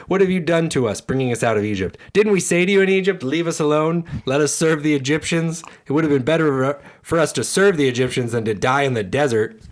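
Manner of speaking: the people shout blame at Moses; angry complaint. Acted. Israelites shout at Moses, angrily accusing him.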